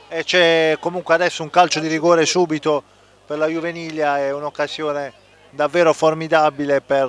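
loud, fast co-commentary; urgent call of the penalty; excited commentary. Real, not acted. Penalty just awarded.

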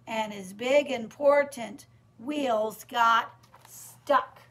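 rhythmic, emphatic storytime narration; sing-song read-aloud, slowing at the end; picture-book reading. Acted. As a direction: read the rhyme to small children with suspense.

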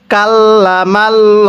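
কাল্লামাল্লাহু with a full, heavy আল্লাহ, slowly; heavy Allah. Shown as a demonstration. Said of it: "আল্লাহ শব্দটা মোটা করে পড়তে হবে". (আল্লাহ মোটা করে পড়া)

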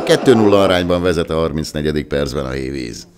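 loud, high goal call; excited Hungarian sports commentary. Real, not acted. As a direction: roar the goal, then keep it loud.

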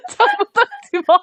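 high yell. Real, not acted. Yelling at in-game character.

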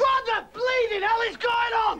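high exasperated outburst; indignant rant. Acted. Comic man's indignant rant.

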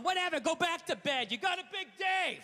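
petty sarcastic brush-off. Retold or imitated. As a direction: sneer it out sarcastically.

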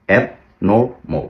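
অ্যাবনরমাল drawn out slowly and ending in "mol"; slow correct abnormal. Shown as a demonstration. Teacher slowly models অ্যাবনরমাল for students. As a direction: stretch out অ্যাবনরমাল and land on "mol". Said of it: "এমওএল এর মতো উচ্চারণ হবে".

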